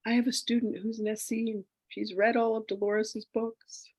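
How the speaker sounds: high, thrilled gush ending in a whisper; excited. Retold or imitated. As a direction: gush like an excited friend sharing news. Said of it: "and she goes".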